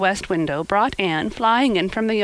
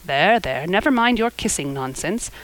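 mildly brusque dismissal; understated gruff reproof. Acted. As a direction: brush off affection in a matter-of-fact way. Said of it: "she said brusquely".

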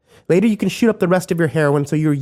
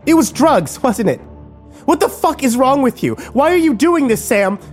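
very high, loud furious screaming; 5 dB louder than usual. A narrator's reading. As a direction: scream it at him, betrayed. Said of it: "Kimber screamed".

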